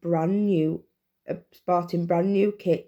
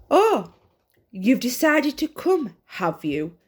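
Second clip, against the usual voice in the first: growl; 6 semitones higher than usual. A narrator's reading. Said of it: "growled Gareth".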